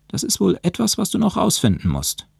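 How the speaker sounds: high-pitched, teasing challenge; slight grin. A narrator's reading. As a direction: dare him with a small grin. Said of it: "ebenfalls mit einem kleinen Grinsen". (leicht grinsend)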